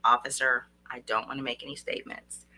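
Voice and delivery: low, calm, measured refusal; slow and soft. Shown as a demonstration. Coach modelling a reply to an officer, calm and low. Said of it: "talk very slow and soft and say".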